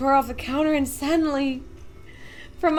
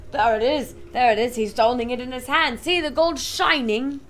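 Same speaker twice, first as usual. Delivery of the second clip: excited; 4 dB louder than usual. Acted. Crowd member pointing.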